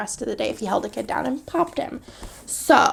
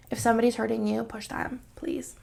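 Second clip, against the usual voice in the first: soft pleading; 7 dB quieter than usual. Retold or imitated. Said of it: "And I'm like".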